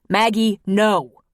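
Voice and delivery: loud urgent no; shouting. Acted. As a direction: shout the warning to stop her. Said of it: "he shouted".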